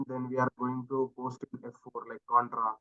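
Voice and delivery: very soft, fading away; barely audible. Real, not acted. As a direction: speak so quietly it barely carries. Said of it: "Your voice is very low".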